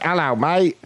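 high, drawn-out fake British accent; mock British accent. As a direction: badly pass as Australian with a British accent. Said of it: "Like, in a British accent".

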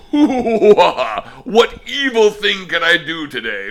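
gleeful cartoon villain voice; cackling evil plotter; mock villain. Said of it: "I was like".

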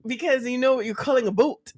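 quick Canadian accent, "boat" for about. Shown as a demonstration. Improvising a Canadian caller line, Canadian accent.

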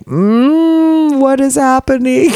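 high, baffled drawl at the flirting; high bewildered. Retold or imitated. To herself at the scene, high baffled. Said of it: "I'm like".

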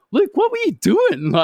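high, laughing mock scold; laughing tease. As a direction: laugh as the friend who saw it. Rabbit teasing him, laughing.

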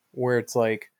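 normal talking voice

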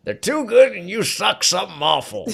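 high, loud mocking taunt. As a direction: sneer it at them. Acting a taunting movie character.

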